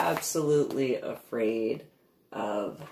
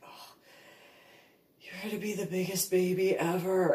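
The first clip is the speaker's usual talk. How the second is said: soft, fast, hushed coo; hushed baby talk; 4 semitones higher, 4 dB quieter than usual. Retold or imitated. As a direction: murmur to the puppy. Hushed words to puppy.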